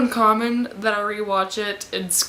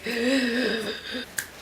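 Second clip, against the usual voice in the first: soft, long fangirl gasp; swooning gasp; 6 dB quieter than usual. Acted. Fan showing her obsession, gasping. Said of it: "so that's why I'm like".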